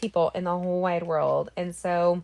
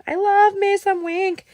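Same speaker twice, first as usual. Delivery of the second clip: high, slowed, sassy "I love me some Wink"; playful gush; 10 semitones higher, 4 dB louder, slower than usual. Real, not acted. Crafter gushing to viewers about her favorite shimmer pen, sassy. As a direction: savor the product name with sass.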